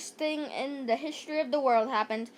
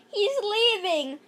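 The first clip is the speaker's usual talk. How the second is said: excited cry; 6 semitones higher, 4 dB louder than usual. Acted. Kids cheering bear leaving.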